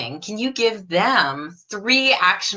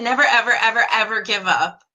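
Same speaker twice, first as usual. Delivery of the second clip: laughing quote; 2 semitones higher, faster than usual. Retold or imitated. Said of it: "He said".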